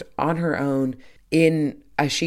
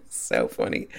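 breathy laughter; 7 dB quieter than usual. Real, not acted. Laughing about Maz's whistle.

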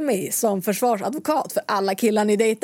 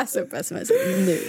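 high, eager yell; excited, high shout to read the message. Real, not acted. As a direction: demand it right now. Friend shouts demanding the text.

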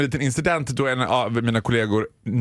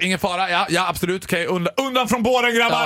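brisk, commanding emergency-doctor voice, higher and building; mock ER surgeon; 3 semitones higher than usual. Mock surgeon for the phone: brisk, commanding. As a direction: play the hero medic clearing the way. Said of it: "då vill man att de ska vara så här".

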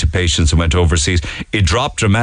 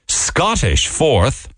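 slow, incredulous "Scottish fourth"; surprised; 6 semitones higher, much slower than usual. Real, not acted. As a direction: drag it out like you can't believe it. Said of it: "I kinda said Scottish there as if I was surprised".

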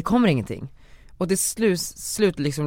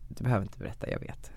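much softer, mother quietly knowing; mother's gentle words; 5 semitones lower, 10 dB quieter than usual. Retold or imitated. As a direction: hush it like a mother who always knew. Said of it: "mamma säger typ så här". (mycket tystare, som en mamma som redan vet)

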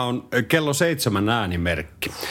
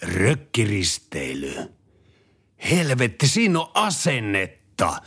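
stern patriot man; 4 semitones higher, slower than usual. Acted. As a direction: growl like a hammed-up patriot. Tough patriot praises cruise. (esitetty jäyhä maanpuolustusmies)

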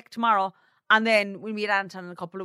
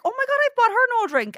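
high-pitched, slightly louder mock panic; retold dismay; 12 semitones higher, 4 dB louder than usual. Friend recalling she forgot someone's drink, mock-dismayed. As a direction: act out a sudden horrified realisation.

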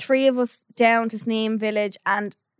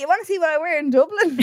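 half-laughing imitation, pitched up; laughing mimicry; 6 semitones higher than usual. Friend mimics the man's line while laughing. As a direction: mimic him while cracking up. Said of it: "He was like".

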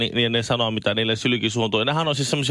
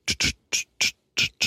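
unvoiced tss of a spray bottle; voiceless hissing spray sound; slower than usual. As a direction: imitate a mister spraying dirty water in short bursts. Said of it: "likaa vettä sumutepulla".

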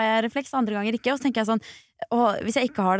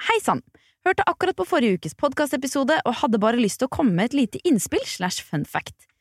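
reading a listener's note to the audience, lightly performed; message read aloud. Acted. Host reading a listener's message to listeners, lightly performed.

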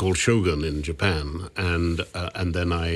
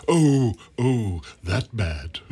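mock dismay from an old theatrical knight; imitating Gielgud; 3 semitones higher, much slower than usual. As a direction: Gielgud reacts to the Greek accent joke, lightly imitated. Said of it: "He said".

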